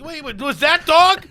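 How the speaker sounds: high, slow disbelief; retold alarm. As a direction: stretch it out, startled. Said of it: "and I'm like".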